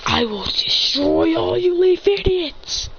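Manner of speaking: slow, high-pitched yell; acted vengeful rage; enraged threat. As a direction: vow destruction at the top of your voice. Avenger threatens the ninjas.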